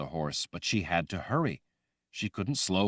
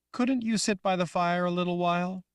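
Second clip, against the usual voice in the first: put-on high, loud young girl voice; childlike Rachel; 12 semitones higher, 3 dB louder than usual. Girl Rachel asking the woman, high and loud. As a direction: sound like a scared little girl.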